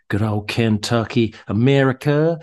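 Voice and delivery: a playful American accent, lightly put on; mock American accent. Shown as a demonstration. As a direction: toss it off like a jokey American. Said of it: "that's my American accent for you".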